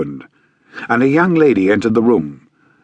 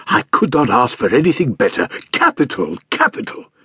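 jovial stout man; 3 semitones higher than usual. Acted. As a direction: gush over her like a genial fat man. Stout man voiced in story.

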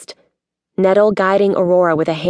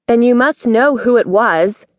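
higher, restrained near-shout; mildly raised voice, held in; almost shouting; 4 semitones higher than usual. A narrator's reading. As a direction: press the accusation, stopping short of a shout. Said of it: "She was almost shouting now".

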